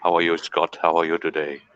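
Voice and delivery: put-on older doctor impersonation, Asian accent; Asian doctor's accent. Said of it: "That's how he talks".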